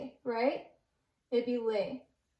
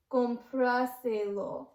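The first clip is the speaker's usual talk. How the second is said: slow "compraselo", accent on the A; stress on the A; much slower than usual. Shown as a demonstration. Teacher showing learners the one-word form, slow with stressed A. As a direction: stretch out "compraselo", leaning on the "pra". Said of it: "extra accent right on that A".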